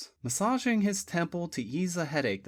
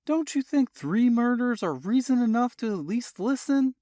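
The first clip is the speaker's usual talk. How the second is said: bitter sarcasm; 7 semitones higher, 5 dB louder than usual. A narrator's reading. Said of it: "bitter sarcasm dripping off each word".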